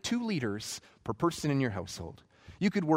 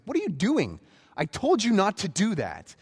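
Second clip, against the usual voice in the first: Moses yelling, pitched up and loud; a furious leader bursting out at sneaky gatherers; angry shout; 7 semitones higher, 5 dB louder than usual. Retold or imitated. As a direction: catch them red-handed and yell. Moses catches Sabbath gatherers.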